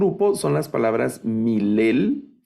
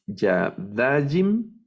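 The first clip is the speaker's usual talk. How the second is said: yadajim said slowly, stressing -DA-; stress on penultimate syllable; 4 semitones higher, much slower than usual. Shown as a demonstration. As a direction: draw out yadajim, leaning on -da-. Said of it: "esta también es milel". (yadajim acentuado en la penúltima sílaba)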